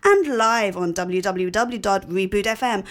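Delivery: posh accent. Shown as a demonstration. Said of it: "shall I do posh?".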